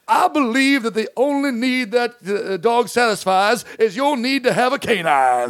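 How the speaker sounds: a hint of an old Southern gentleman, slowed down; Foghorn Leghorn. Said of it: "he talked like Foghorn Leghorn".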